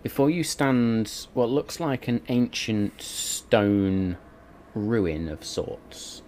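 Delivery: slow, hushed storytelling; dreamy scene narration. A narrator's reading. DM sets a tranquil moonlit vision.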